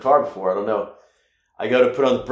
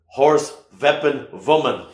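friend's punchy version; 4 semitones higher than usual. Retold or imitated. Quoting his friend's short version, punchy. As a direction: bark the three words like a punchline. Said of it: "like my friend says".

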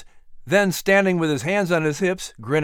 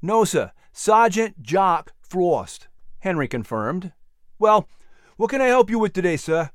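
lightly voiced, eager shop lad; a slightly higher voice for a polite shopkeeper; helpful shopkeeper; 4 semitones higher than usual. Voices young shopkeeper Henry.

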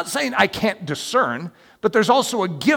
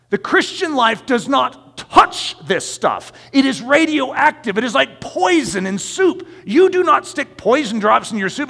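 higher, forceful sermon rebuttal; emphatic preaching; 6 semitones higher, 4 dB louder than usual. Real, not acted. Preacher rebuts an objection about normal life, emphatic preaching. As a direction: drive each point home to the congregation. Preaches against accepting fear.

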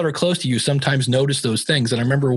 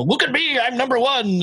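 lightly hammed-up bragging, pitched higher; mock boast; 9 semitones higher than usual. A believer mocking arrogance, higher mock boast. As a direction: toss it off like a show-off you're mocking.

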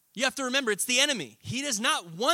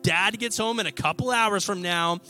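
smug sibling taunting, louder on going down; gloating big brother; 4 dB louder than usual. Pretend. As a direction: rub it in like a smug older brother. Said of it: "You're like".

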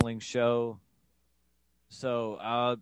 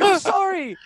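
put-on much higher, louder, pleading kid voice; whiny apology; 11 dB louder than usual. A son pleading with his angry dad, high and whiny. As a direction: squeal it out like a caught teenager.

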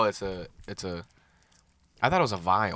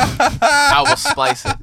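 laughing through the words; giggling, drawn out; 12 semitones higher, 5 dB louder, much slower than usual. Real, not acted. Laughing while promising to edit.

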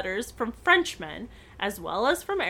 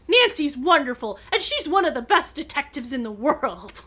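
louder eager outburst in praise of Nancy; bursting out; 3 semitones higher, 4 dB louder than usual. Acted. Bess bursting out to the Frenchman, eagerly. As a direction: blurt it out, proud of her friend. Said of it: "Bess burst out".

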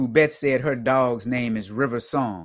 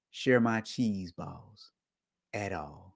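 mock possessive; 3 semitones lower, 7 dB quieter, slower than usual.

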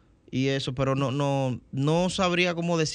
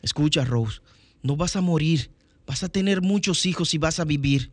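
Jack dubbing voice. Shown as a demonstration. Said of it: "la misma voz de Leonardo DiCaprio".

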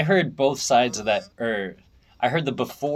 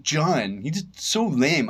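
put-on German accent; 5 semitones higher, much slower than usual. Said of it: "he's got that German accent".

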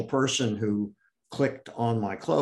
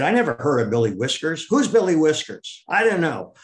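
incredulous; 5 semitones higher, 4 dB louder than usual. Retold or imitated. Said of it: "And he said".

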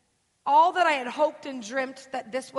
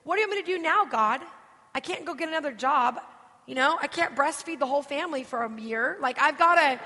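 retold desperate pleading, pitched up; mock sobbing; 3 semitones higher, 3 dB louder than usual. Speaker retells pleading with God, mock-sobbing desperation. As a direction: act out an overwhelmed plea, building louder. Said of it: "I'm just sobbing".

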